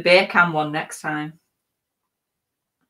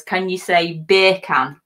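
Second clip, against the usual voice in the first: slow, louder mock Jamaican accent; 6 dB louder, slower than usual. Host recalls a listener request, in a mock Jamaican accent. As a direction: lean into a Jamaican accent on bacon. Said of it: "sounded like bacon in Jamaican".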